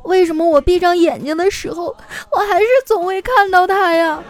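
high, strained gritted-teeth grumble; imitating a tearful friend seething; through gritted teeth. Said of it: "就咬着牙恶狠狠地说".

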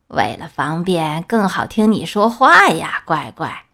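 wolf hiding as a sweet grandma; lightly voiced fake grandma. (狼装成奶奶，低声哄着说)

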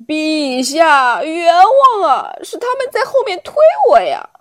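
high, fast, frightened pleading; old onion pleads his innocence to the king in fright. Acted. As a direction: beg the king, terrified. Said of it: "老洋葱吓坏了".

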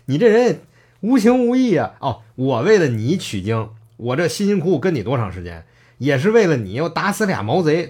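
half-laughing fury at the master; angry, laughing in spite. Retold or imitated. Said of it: "孙悟空就气笑了".

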